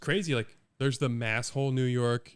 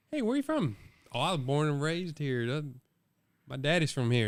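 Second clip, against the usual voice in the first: lightly put-on Southern Georgia drawl; mock Georgia drawl; 2 semitones higher than usual. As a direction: imitate an old Florida local with a Georgia drawl. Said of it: "you have a Georgia drawl".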